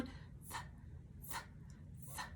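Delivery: "Th" breathed out soft and voiceless; a light airy th, tongue on teeth; soft unvoiced th drill; quiet th sound. Shown as a demonstration. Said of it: "It's like a light sound, a quiet sound".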